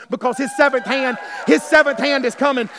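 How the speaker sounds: building shout over seventh hand; preacher lifting to a shout; rising preaching call. Acted. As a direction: stir the crowd to praise. Congregation urged to shout.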